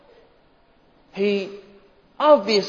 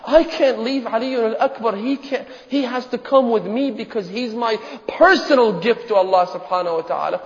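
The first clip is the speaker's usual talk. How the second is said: impassioned father's refusal; 5 semitones higher than usual. Acted. Father refusing his daughter.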